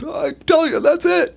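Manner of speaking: stammering, caught-out excuse; sheepish. Retold or imitated. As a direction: official sheepishly defending the fake diagnosis. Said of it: "The guy sheepishly goes".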